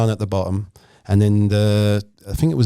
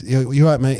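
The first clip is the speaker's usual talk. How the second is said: put-on slurred drunk mumble; 3 semitones higher than usual. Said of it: "He sounded like he had marbles in his mouth".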